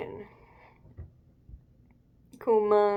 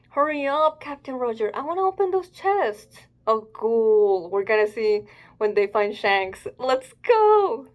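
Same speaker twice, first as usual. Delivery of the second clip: eager crewmate; 4 dB louder than usual. Acted. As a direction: bounce with impatience to open the chests. Eager crewmates voiced in manga.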